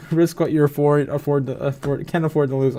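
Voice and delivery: tipsy, slurred words; slurring. Real, not acted. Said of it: "starting to slur my speech".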